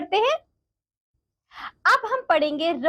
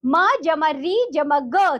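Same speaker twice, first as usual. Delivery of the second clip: letters spelled out slowly one by one; slow sounding out; slower than usual. Shown as a demonstration. Teacher slowly spells the letters for the children. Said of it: "बच्चों यहाँ देखो".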